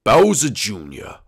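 slow, drawn-out call; slow apparition voice; ghostly father. Acted. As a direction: call to a son as a ghost dad.

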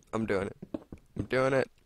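talking through hiccups; hiccupy words. Real, not acted. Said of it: "I got the hiccups".

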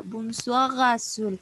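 "Bonsoir, Azul" linked through the French R; liaison francesa. Retold or imitated. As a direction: run "Bonsoir, Azul" together as "bon-swa-razul". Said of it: "ella hacía la liaison". ("Bonsoir, Azul" enlazado con la R francesa)

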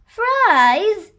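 high, loud startled echo; taken aback, pitched right up; surprised question. Acted. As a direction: exclaim it in disbelief. Nanny hen startled by the request.

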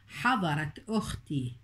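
حضرت said with its final t, run on into أختي; connected speech. Shown as a demonstration. Teacher showing the t of حضرت in running speech. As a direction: sound the t of حضرت clearly before أختي. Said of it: "التاء هنا جاءت في درج الكلام".

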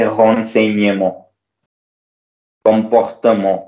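renseignement, comportement with on endings; ent said as nasal on. Shown as a demonstration. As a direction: end both French words on nasal on. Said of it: "this E N T will be pronounced as on".

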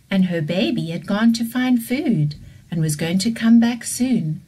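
put-on gentle storybook voice for kids; children's story narration. A narrator's reading. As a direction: tell it like a bedtime story to little ones.

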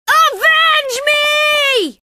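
high, slow, drawn-out shout; theatrical dying plea; melodramatic death cry. Acted. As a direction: ham it up like a dying hero.

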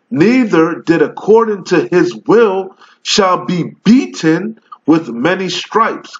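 slow, solemn King James recital; scripture reading. Acted. Street preacher reads the Bible to his video audience, solemn slow recital. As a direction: read the verse like preaching it from the pulpit.

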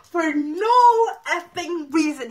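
slow, drawn out, exasperated; slowed exasperated complaint. Real, not acted. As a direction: drag each word out in disbelief.

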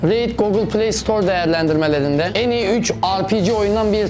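even, rehearsed promo delivery; sponsor ad read. Real, not acted. Reads a sponsor ad. (sponsor reklamı okuması)

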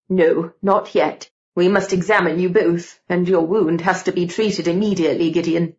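lightly voiced man taking charge; a hint of a concerned gentleman, insisting; insistent Mister George.

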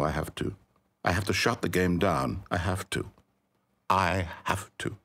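broken narrator deciding to shut the game down; hopeless despair. Acted. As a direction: let him sink and give up.

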